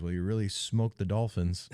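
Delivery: retelling dad's quip while laughing; laughing through dad's line. Retold or imitated. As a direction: chuckle through the quote. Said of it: "and my dad goes".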